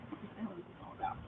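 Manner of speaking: barely audible, very soft whisper; whispered aside. Retold or imitated. Woman retelling her pouting alone in room, whispered aside. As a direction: whisper it to yourself, bewildered. Retold private muttering to herself.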